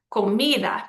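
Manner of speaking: co-MI-da, weight on MI in comida; stress on second-to-last syllable. Shown as a demonstration. Teacher giving example, comida stressed on MI. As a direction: lean on the middle of comida. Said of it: "that's the second to last syllable".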